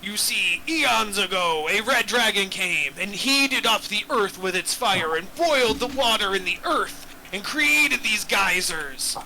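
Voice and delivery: lightly voiced grand old dragon. Dragon NPC speech, GM voice.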